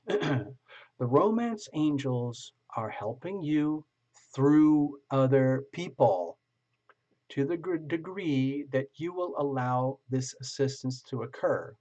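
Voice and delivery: slow, deliberate book reading; reading aloud. Acted. Tarot reader reads the guidebook to a viewer, slow and measured. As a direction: read the card text out with weight.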